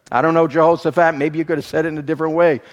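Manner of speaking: excited aside. Real, not acted. Joking aside to Jehoshaphat.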